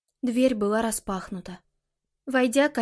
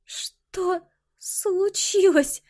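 slow, strained and high; with difficulty; 8 semitones higher, much slower than usual. A narrator's reading. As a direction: force out the question. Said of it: "с трудом проговорила она".

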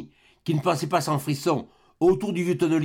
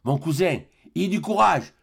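called out; 4 semitones higher than usual. Acted. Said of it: "lui cria Eugénie".

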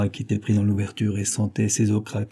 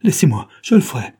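loud, urgent call to stop; acted forceful outcry; crying out; 3 semitones higher, 7 dB louder than usual. A narrator's reading. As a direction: shout to hold them off. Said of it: "mais Nick leur cria".

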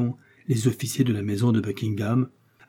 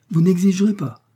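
higher, louder "Vous n'exigerez pas", each syllable leaned on; astonished, stressed syllables; 8 semitones higher, 5 dB louder than usual. A narrator's reading. Buckingham stares at Felton, "Vous n'exigerez pas" said with astonished weight on each syllable. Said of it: "appuyant sur chacune des syllabes".

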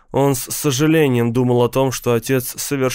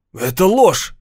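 shouting; 5 semitones higher, 3 dB louder than usual. Acted. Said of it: "закричал Стив".

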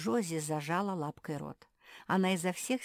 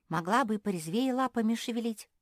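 snapping; 7 semitones higher, 7 dB louder than usual. Acted. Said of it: "огрызнулась Лягушка".

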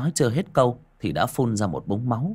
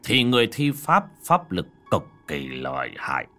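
put-on old master voice. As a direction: speak like a weary old sage. Old Taoist master explains.

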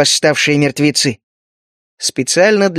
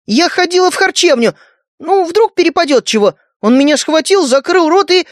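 put-on little girl; 10 semitones higher than usual. Young victim girl testifies.

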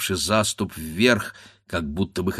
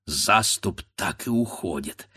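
ordinary delivery

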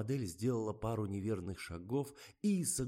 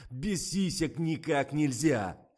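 dismayed protest; 7 semitones higher, 8 dB louder, slower than usual. A narrator's reading. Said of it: "растерялся Фомин".

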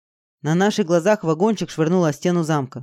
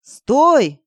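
high, loud yelled stop; 8 semitones higher, 7 dB louder than usual. A narrator's reading. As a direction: bellow it to halt her. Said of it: "завопил Саша".

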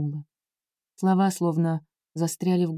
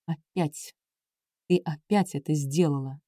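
lower, softer, seething through the teeth; through gritted teeth; 4 semitones lower, 4 dB quieter than usual. Acted. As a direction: hold back anger, push it through teeth. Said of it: "процедил сквозь зубы". (Эндрю цедит сквозь зубы, тише и ниже)

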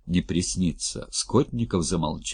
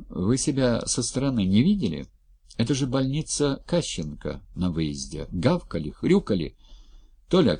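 rising, mocking reproach; lightly voiced indignant woman; indignant Anna; 5 semitones higher than usual. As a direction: shame them with pointed questions.

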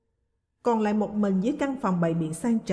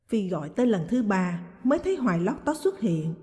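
plain reading voice

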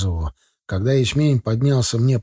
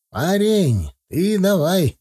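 higher-pitched urging; mildly insistent; 7 semitones higher, much slower than usual. A narrator's reading. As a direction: press him, voice lifted. Old driver urging the combine operator. (слегка настойчиво, выше голосом)

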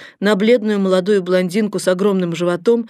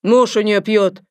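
mocking; 3 semitones higher, 5 dB louder, slower than usual. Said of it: "обратилась страшная тётка".

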